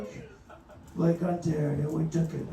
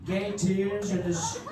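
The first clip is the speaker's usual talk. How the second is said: Trump impression. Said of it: "There's the Trump impression".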